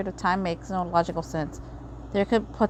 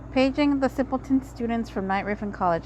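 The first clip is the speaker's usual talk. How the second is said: mocking announcer; 2 semitones higher than usual.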